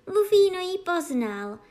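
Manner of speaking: princess exclaiming. A narrator's reading. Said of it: "zvolala princezna".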